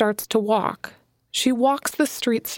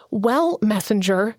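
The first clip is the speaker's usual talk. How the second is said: slow, hard-edged words; a touch of cold anger, each word weighed; understated steel; steely; slower than usual. Acted. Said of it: "steel filled each word".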